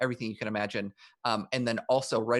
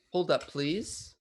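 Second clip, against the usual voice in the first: slow, slightly raised elf voice; 5 semitones higher, slower than usual. Shown as a demonstration. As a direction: try out an elf guard voice. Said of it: "No, that's not a good, what's a good elf voice?".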